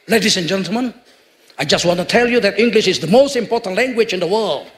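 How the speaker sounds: fluent English-accented speech. Shown as a demonstration. Preacher showing how English should sound, English accent. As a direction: address the audience in a smooth English accent. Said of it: "enaknya kan pakai logat Inggris".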